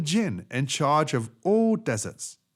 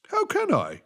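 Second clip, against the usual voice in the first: much higher whiny camel; camel protesting. Acted. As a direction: protest helplessly.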